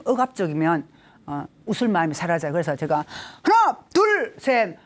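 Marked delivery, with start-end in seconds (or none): 3.4-4.8 high, punchy count-off; spirited high-pitched instructor count; energetic exercise count. Shown as a demonstration. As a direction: call the numbers out brightly to a group.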